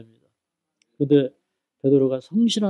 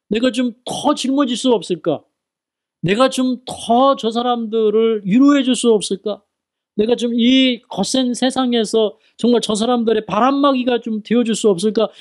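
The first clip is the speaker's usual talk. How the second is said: earnest longing; 7 semitones higher than usual. Acted. Voicing his heart's longing.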